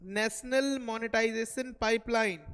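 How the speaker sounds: dictating a term to note-takers; slow dictation. Shown as a demonstration. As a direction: dictate "national monetization pipeline" slowly so students can write it. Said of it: "दूसरा लिखेंगे".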